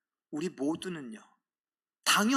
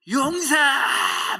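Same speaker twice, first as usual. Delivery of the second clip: much higher, louder stretched shout; shouted cheer; 10 semitones higher, 8 dB louder, much slower than usual. Retold or imitated. A rival student at the game, a long loud cheering shout. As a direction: belt the team name across the stands.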